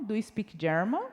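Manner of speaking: "German" lifted at the end as a question; questioning intonation. Shown as a demonstration. Teacher models a question for English learners, "German" rising. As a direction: ask it, letting "German" rise. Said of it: "Com entonação, que é uma pergunta".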